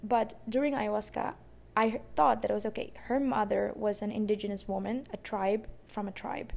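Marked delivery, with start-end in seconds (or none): 5.9-6.5 whispered aside. Real, not acted. Telling a stranger's story, she whispers the correction. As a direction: drop to a soft breathy whisper.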